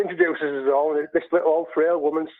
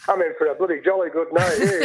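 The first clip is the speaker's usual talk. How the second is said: laughing. Retold or imitated. Excited thought, laughing while telling.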